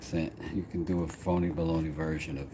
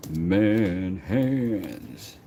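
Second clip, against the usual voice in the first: punchline announcer; 5 dB louder than usual. Pretend. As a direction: slam the punchline like a trailer voice. Punchline answering damsel.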